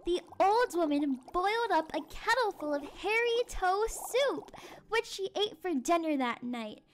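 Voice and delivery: expressive Halloween storytelling; story narration for children. A narrator's reading. Teacher reads a spooky, silly tale to children, storytelling. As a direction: read it aloud to a listening class.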